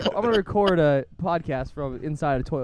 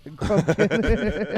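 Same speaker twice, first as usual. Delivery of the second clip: laughing; 4 semitones higher, much slower than usual. Real, not acted. Laughing repeat of silly word.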